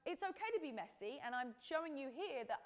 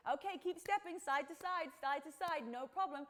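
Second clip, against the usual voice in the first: louder, upbeat coaching call; instructor calling out; 3 semitones higher, 4 dB louder than usual. Retold or imitated. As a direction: re-enact calling steps to a workout class. Calling out to live workout class.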